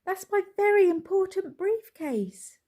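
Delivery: high loud desperate bellow. A narrator's reading. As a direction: roar it after the bus. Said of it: "bellowed Mister Brown".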